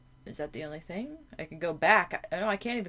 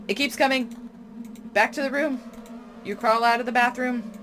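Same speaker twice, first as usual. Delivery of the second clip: loud, urgent, higher panicked reading; 4 semitones higher, 4 dB louder than usual. Real, not acted. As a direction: read it like you're being chased. Tentacle attack, panicked reading.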